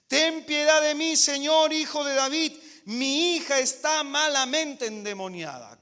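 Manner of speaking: loud, high plea for mercy; desperate mother crying out; pleading cry. Acted. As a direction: cry out to the Lord for help. Woman cries out to Jesus.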